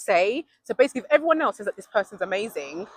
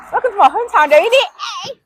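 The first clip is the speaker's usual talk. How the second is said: laughing welcome; 10 semitones higher, 9 dB louder than usual. Real, not acted. Showing hometown, joking accent.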